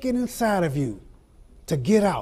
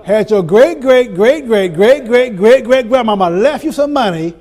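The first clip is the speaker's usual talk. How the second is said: emphatic; 7 dB louder than usual. Real, not acted. Preaching build, repeated greats.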